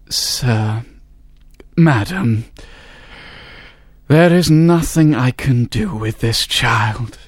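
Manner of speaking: slow, solemn doctor's verdict; a slow, grave doctor's pronouncement. A narrator's reading. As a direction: deliver the bad news slowly and gravely. London doctor gives verdict.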